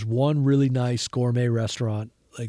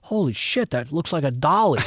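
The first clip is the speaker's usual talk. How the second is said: amazed; 3 semitones higher than usual. Retold or imitated. Frank's amazed reaction, retold.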